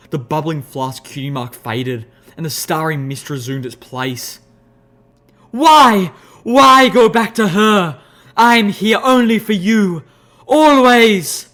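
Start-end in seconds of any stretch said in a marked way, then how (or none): 5.5-11.5 eerie Alicorn voice. Acted. Alicorn voice arguing.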